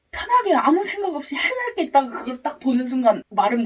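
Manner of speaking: telling it through laughter; laughing. Real, not acted. Laughing while telling jellyfish scare.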